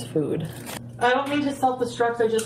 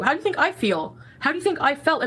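hurt demand; 5 semitones higher than usual. Real, not acted. Repeated angry accusation.

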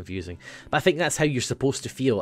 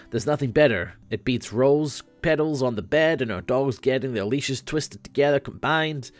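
Dave Sprite voice; 2 semitones higher than usual. Acted. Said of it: "let's do Dave Sprite".

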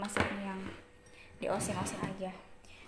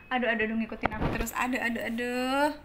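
fond fussing; 5 dB louder, faster than usual. Real, not acted. Kitten keeps following her.

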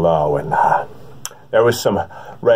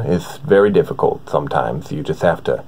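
Morgan Freeman impression; 4 semitones lower than usual. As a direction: speak as if there's no trouble at all, slowing down to a breathy finish. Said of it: "Now, Morgan".

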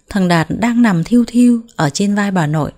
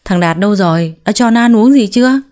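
put-on loud, commanding old woman; mother-in-law bursts in and booms a demand, a bit louder; booming voice; 4 dB louder than usual. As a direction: boom it out like a bossy mother-in-law. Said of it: "giọng bà đã sang sảng".

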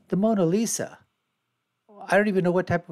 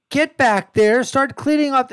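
mock order; 8 semitones higher, 6 dB louder than usual. Barking orders at protesters.

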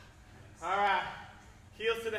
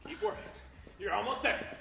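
barking gym coach. Real, not acted. Coach pushing the class hard.

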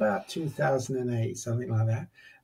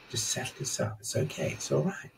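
calm inner voice soothing a man after his rage. Retold or imitated. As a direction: settle him down gently, almost breathing the words. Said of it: "It was this very calming voice".

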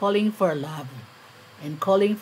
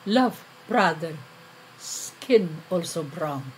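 subdued echo. Acted. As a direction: repeat it haltingly, letting it sink at the end. Poem echoes the same appeal, subdued.

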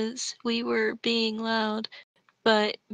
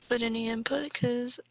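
whisper; 5 dB quieter than usual. Real, not acted. Cohost whispers an aside.

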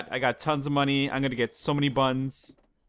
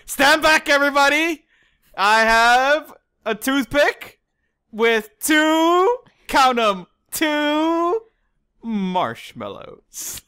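high, loud, slow beach-show-off brag; Larry the Lobster; 11 semitones higher, 6 dB louder, much slower than usual. Retold or imitated. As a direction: boast like a cartoon lobster flexing. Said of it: "it's from SpongeBob".

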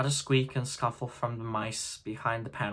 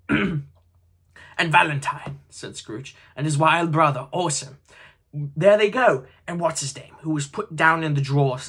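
put-on higher, louder, breathless childlike glee; between laughing and crying; 3 semitones higher, 5 dB louder than usual. A narrator's reading. Scrooge reliving his boyhood stories, half laughing half crying. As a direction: gush like an old man turned boy again. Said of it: "in a most extraordinary voice, between laughing and crying".

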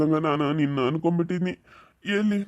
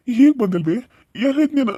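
louder and higher, demanding where she was; upset shout; 5 semitones higher, 4 dB louder than usual. Acted. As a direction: scold her loudly out of worry. Son scolds returning mother. (ಎಲ್ಲಿದ್ದೆ ಎಂದು ಜೋರಾಗಿ ಗದರುವುದು)

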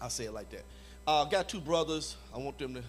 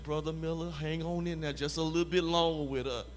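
patient partner. Retold or imitated. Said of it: "And he wait too long".

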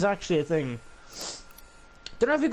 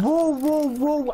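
much higher, loud playful stop; mock alarm; 8 semitones higher, 3 dB louder than usual. Teasing a friend about cartoons, in loud, much higher mock alarm. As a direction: halt him in fake shock.

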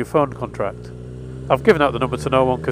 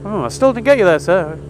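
caller voice; 5 semitones higher than usual. Retold or imitated. Voicing the cold caller.

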